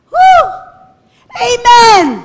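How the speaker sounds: high, loud cheer to the crowd; rousing shout. Real, not acted. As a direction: whoop it up for the church. Preacher rousing congregation. (sigaw ng papuri)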